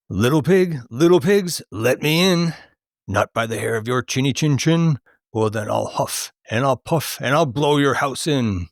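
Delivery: lightly voiced taunting wolf; menacing quote. Quizzing a friend, mock-menacing wolf at the door.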